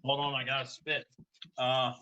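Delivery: talking with toothbrush in mouth; brushing teeth. Real, not acted. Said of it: "brush your teeth like a four-year-old".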